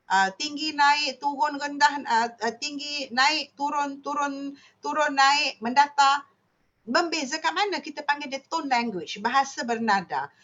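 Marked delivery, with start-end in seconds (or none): 0.1-6.3 Thai tones. Shown as a demonstration. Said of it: "dia bercakap ada nada".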